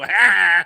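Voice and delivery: loud, put-on "ha"; exaggerated vocal outburst; mock actor's "ha". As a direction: blurt out a big loud "ha". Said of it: "I won't use my normal speaking voice for that".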